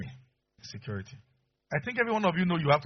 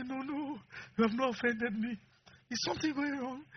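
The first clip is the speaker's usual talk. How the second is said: mock exchange; 11 semitones higher, 4 dB quieter than usual. Wife and husband exchange.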